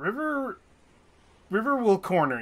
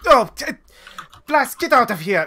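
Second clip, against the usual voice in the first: higher, louder shout at the brother; yelling at Flask; 8 semitones higher, 7 dB louder than usual. Acted. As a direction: chase him out with a yell. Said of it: "she's just like".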